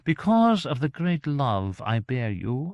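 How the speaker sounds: high, slow, grandiose gentleman; theatrical high voice, stately and menacing; imperious gentleman. A narrator's reading. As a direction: pronounce a doom in a lofty, drawn-out voice. Gentleman grandly pronounces a doom.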